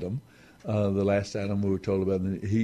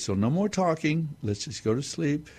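higher, firm grandpa voice; grandpa settling him; 6 semitones higher than usual. Retold or imitated. Grandpa settles the boy to sleep, mock firm. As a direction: tell him firmly to sleep. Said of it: "And so he says".

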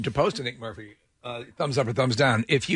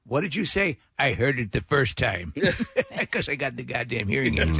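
put-on old man voice. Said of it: "that old man voice".

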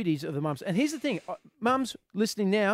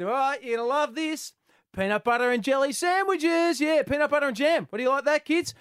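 higher, pleased showman voice; proud announcement; 5 semitones higher, 4 dB louder than usual. Retold or imitated. Dad proudly announcing peanut butter sandwiches to the kids, showman. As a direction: present it like a grand surprise.

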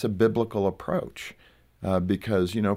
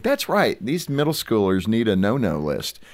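smug agreement; 3 semitones higher than usual. Retold or imitated. Parents approving a no-no list, smugly. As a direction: approve the idea with a smug lift. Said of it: "we're gonna think".

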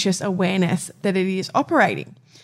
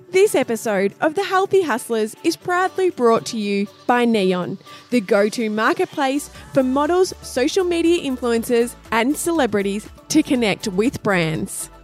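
sponsor ad read; 3 semitones higher than usual. Acted. Sponsor message over music.

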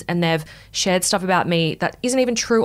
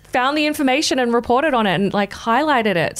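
exasperated retort; 7 semitones higher than usual. Retold or imitated. Exasperated retort to blaming guys.

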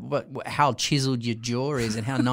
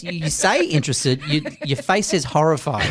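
laughing through the words; amused teasing; laughing tease; 6 dB louder than usual. Real, not acted. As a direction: tease him while chuckling. Teasing George while laughing.

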